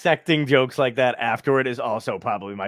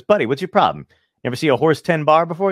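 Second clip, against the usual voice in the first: annoyed bar patron; 3 semitones higher, 8 dB louder, faster than usual. Retold or imitated. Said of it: "he's getting kinda pissed".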